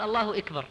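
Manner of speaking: أكبر said as "ikbar"; "Allahu ikbar" for الله أكبر; kasra on hamza. Retold or imitated. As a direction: open أكبر with an i sound. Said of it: "كسر الهمزة في تكبيرة الإحرام".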